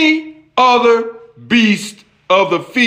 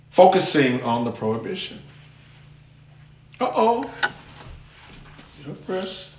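ordinary talk

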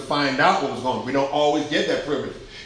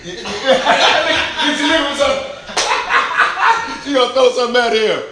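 high, loud teasing through laughter; real laughter while calling out to Phyllis; laughing; 7 semitones higher, 4 dB louder than usual. Real, not acted. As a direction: rib her while cracking up.

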